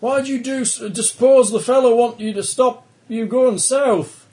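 put-on high, loud reporter with an Australian accent; eager Australian newsman accent. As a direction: fire questions in an Australian accent. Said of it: "It's Australian".

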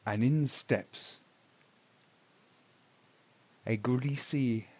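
slow, deliberate scene-setting; game master narration. A narrator's reading. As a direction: paint the tavern slowly for the players.

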